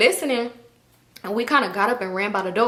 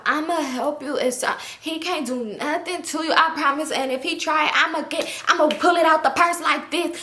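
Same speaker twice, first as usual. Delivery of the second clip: higher-pitched imitation of a drunk girl; slurred drunk; 6 semitones higher than usual. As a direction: mimic her tipsy, slurred promises. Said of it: "she slurring talk, she's so drunk".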